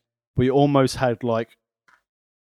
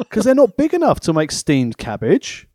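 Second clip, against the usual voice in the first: mock outrage; 3 semitones higher than usual. Mocking chef outrage.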